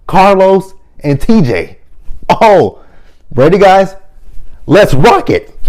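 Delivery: put-on very high, loud, slow childlike excitement; excited kid fan. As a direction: squeal like a kid watching the show. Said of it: "That's how I was as a kid".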